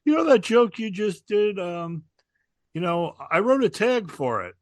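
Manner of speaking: lightly voiced fellow comic pitching an idea; a hint of imitation; Minervini. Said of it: "Minervini goes".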